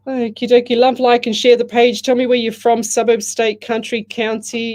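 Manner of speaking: rally the viewers with energy; upbeat loud call-out. Real, not acted. Psychic host rallying her live stream viewers, loud and upbeat.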